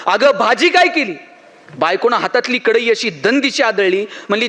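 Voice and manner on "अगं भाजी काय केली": a mild mock yell into the wife's ear; retold shout. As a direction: shout it close, like she can't hear. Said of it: "जोरात कानात ओरडला". (बायकोच्या कानात हलकेच नक्कल केलेली ओरड)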